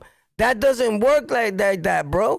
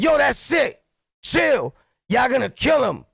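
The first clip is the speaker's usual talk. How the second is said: urgent shout; 3 semitones higher than usual. Retold or imitated. Stopping guys from beating a man, urgent yelling. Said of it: "and I'm like".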